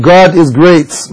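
very slow, spelled-out Allah is great; slow demo in English; English takbir example. Shown as a demonstration. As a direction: say it word by word, very slowly. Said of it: "أو".

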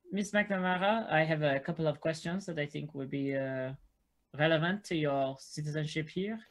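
measured, polite official questioning; formal questioner. Acted. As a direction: put a careful formal question to her.

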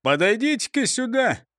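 high-pitched summons; calling out. A narrator's reading. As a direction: call them over with authority. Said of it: "крикнул прокурор Принцип".

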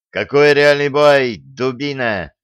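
loud, sharp interruption; cutting retort. A narrator's reading. Coach cutting off the student mid-excuse, loud sharp retort. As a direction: shut the boy up hard. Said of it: "оборвал Дениса тренер".

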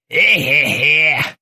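drawn-out disapproving "eh"; a knowing old sailor's tut; tongue click. A narrator's reading. The old sailor tuts at Krueger. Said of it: "прищёлкнул языком старый моряк".

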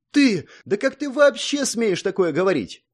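high, loud outraged shout; angry. A narrator's reading. Song furiously rebukes the hero. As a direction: blaze with fury. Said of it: "гневно ответила Сонг".

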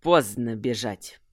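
slow, low hiss. Acted. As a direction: hiss it coldly. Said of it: "прошипел Кирсан". (прошипел)

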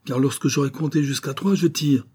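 hurlé très haut et fort; hurlement furieux. A narrator's reading. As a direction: aboie l'ultimatum en hurlant. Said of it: "hurla monsieur Sherman". (Sherman hurle au visiteur de partir, furieux)

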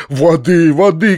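loud, urgent call; panicked shout. A narrator's reading. Uncle calling for water for mother, loud panicked shout. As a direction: shout for help in alarm. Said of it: "кричал дядя".

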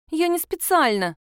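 put-on high pouty little girl, lips pushed out; pouting child. A narrator's reading. Girl pouting at her aunt, high sulky voice. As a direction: sulk it out like a scolded girl. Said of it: "Она надула губы".

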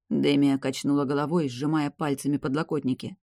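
ordinary delivery

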